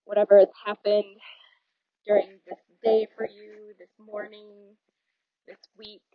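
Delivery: guided breathing. Acted.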